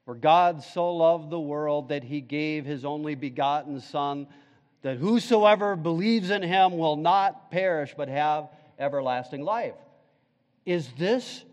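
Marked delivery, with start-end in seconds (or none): 0.0-9.7 recited verse, read in unison; reciting scripture together. Real, not acted. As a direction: recite it with the congregation. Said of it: "We could say it together".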